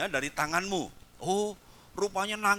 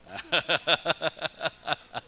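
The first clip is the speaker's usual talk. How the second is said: laughter; 3 semitones lower than usual. Real, not acted. Laughs with congregation.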